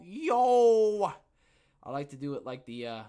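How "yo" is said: loud excited yo; hype shout. Real, not acted. Shouting yo to welcome the guest. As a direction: greet the guest with a big shout.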